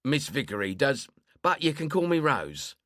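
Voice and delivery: brushing off the refusal, fussing; chatty old woman, insistent. Acted. Old woman introduces herself.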